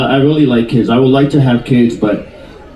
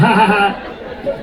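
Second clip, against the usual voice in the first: mock laugh; 5 semitones higher, 4 dB quieter, much slower than usual. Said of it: "look at her laughing".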